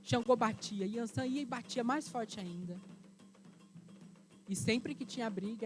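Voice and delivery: ordinary delivery, nothing marked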